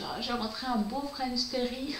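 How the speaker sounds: light imitation of a Belgian accent. Quoting the fabric seller in a light Belgian accent. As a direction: mimic the friend's Belgian accent, playfully. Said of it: "avec l'accent belge".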